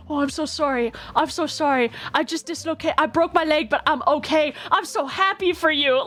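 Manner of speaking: lightly imitated babbling reassurance; drunken apologizing. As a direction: apologize over and over, mildly fretful.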